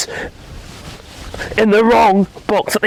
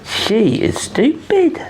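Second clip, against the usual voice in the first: mock teasing; much slower than usual.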